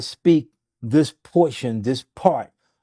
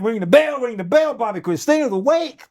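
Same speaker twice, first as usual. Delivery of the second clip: excited announcement; 9 semitones higher than usual. Retold or imitated. Staff celebrating the patient waking up.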